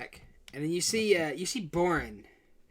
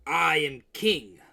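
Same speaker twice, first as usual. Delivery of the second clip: defiant mad king; much slower than usual. Acted. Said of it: "Could you repeat that?".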